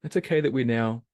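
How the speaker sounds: sugary "it's okay" with rage underneath; passive-aggressive. Retold or imitated. Imitating a passive-aggressive coworker, mock sweet. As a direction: fake calm that hides anger. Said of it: "they're just speaking this passive".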